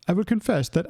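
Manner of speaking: attempted British accent, loosely done. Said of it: "should I do this in a British accent?".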